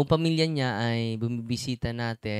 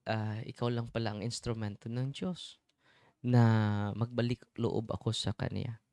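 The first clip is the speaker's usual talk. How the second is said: sincere apology; 3 semitones lower, 4 dB quieter than usual. Retold or imitated. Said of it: "sabi niya".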